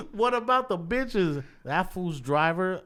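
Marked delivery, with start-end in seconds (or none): 0.1-1.4 higher, louder, laughing through the words; laughing repeat. Real, not acted. Retelling a rapper's punchline to the host, laughing through it. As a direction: crack up while repeating it.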